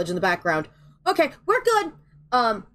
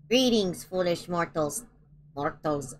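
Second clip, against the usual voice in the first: low, quiet haunted-house host voice; spooky ghost host; 5 semitones lower, 5 dB quieter, slower than usual. Pretend. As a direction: greet them like a creepy ghost host. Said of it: "I sound like I'm emergency induction port".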